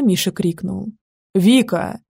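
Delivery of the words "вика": calling from far away, muffled; as if shouting up from a well; muffled distant call. A narrator's reading. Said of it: "Откуда-то глухо, издалека, будто из колодца".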